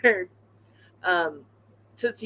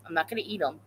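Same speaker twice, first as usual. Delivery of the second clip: quieter repeat; 6 dB quieter, much faster than usual. Real, not acted. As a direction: mutter it to yourself. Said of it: "I'm not gonna eat 'em".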